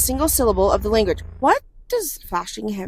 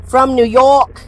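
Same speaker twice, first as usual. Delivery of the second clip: put-on American accent; 4 semitones higher, 7 dB louder, slower than usual. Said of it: "I have to change my accent".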